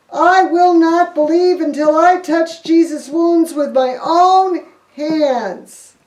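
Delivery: loud, slowing defiant vow; mad Thomas. Acted. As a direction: plant his feet and refuse. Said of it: "He got so mad".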